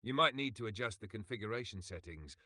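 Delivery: put-on English with a French accent. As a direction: explain the settings with a French accent. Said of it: "Speak English with a French accent".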